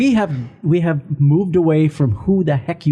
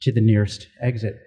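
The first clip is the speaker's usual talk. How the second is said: flight attendant voice; 2 semitones lower than usual. Acted. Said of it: "my flight attendant voice".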